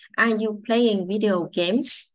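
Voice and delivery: slow question with the voice rising at the end of "games"; rising question tune. Shown as a demonstration. Teacher models a yes-no question with a rising end. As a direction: lift the end of "Are you playing video games?". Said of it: "Lên giọng nha".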